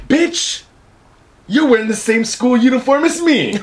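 sassy schoolgirl. Retold or imitated. Mock schoolgirl sass, high.

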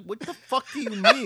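high, loud, laughing mock outburst. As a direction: blurt it in disbelief, half laughing. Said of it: "it was like".

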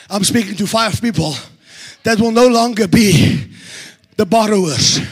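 low, soft preaching aside; hushed low sermon voice; quiet, drawn in. Acted. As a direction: draw them close with a hushed, low voice. Quiet intimate address to congregation.

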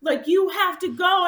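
high urgent shout of a volunteer; volunteer urging her on, a high urgent shout; retold volunteer's shout. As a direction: yell at the runner to hurry. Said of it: "he's like".

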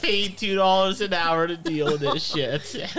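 fed-up cashier. Acted. Clerk complains.

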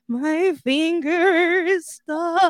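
high, drawn-out bawling kid imitation; hammed-up crying; mock wail. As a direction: wail each word slowly like a hurt little brother. Imitating brother wailing in pain.

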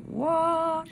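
high astonished what; amazed. Retold or imitated. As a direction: gasp it out in disbelief. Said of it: "they're gonna be like".

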